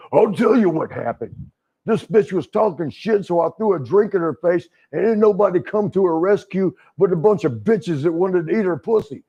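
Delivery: lightly voiced wrestler, worked up; imitating Hulk ranting. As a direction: hammer it out like a wrestler explaining himself. Voicing Hulk's rant to the bouncers.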